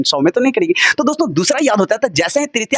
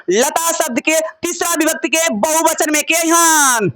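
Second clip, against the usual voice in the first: calling out; 4 semitones higher, slower than usual. Real, not acted. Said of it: "teacher shouting question to class".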